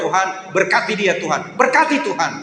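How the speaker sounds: a grudging prayer pushed out hard, rising on the last Berkati; mock prayer for someone you dislike, said forcefully; forced loud blessing. Pastor mimics a grudging prayer, forcefully loud. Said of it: "tapi kencang banget".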